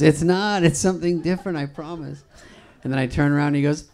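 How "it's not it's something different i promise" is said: higher-pitched pleading imitation; Farley. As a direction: lightly imitate a friend insisting, pitched up.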